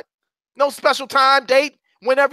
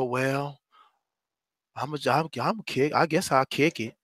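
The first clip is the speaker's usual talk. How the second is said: half-hearted; 4 semitones lower, 8 dB quieter than usual. Acted. Half-hearted kicker, acted.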